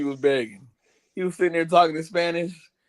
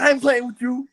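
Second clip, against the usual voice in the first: angry warning; 9 semitones higher than usual. Retold or imitated. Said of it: "he said".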